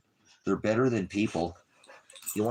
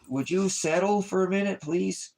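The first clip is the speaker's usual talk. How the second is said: high, louder pleading to the dog; 13 semitones higher, 4 dB louder than usual. Real, not acted. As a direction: beg the puppy to calm down in a high voice.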